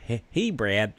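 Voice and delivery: American-style name call; American accent. Shown as a demonstration. Co-host reading Jane's message to Brad, American accent. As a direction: read it with an American twang. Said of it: "read that in an American way".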